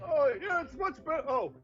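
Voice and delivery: put-on high old man, pleased; relieved old man.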